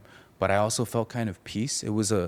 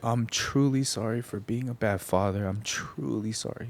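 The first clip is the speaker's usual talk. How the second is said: higher, choked-up retold plea; retold tearful apology; 3 semitones higher than usual. Son retelling his crying father's apology, moved and tearful. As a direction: imitate a father apologizing through tears. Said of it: "like, crying and".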